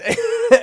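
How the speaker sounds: high loud laugh; burst of laughter. Real, not acted. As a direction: laugh out hard.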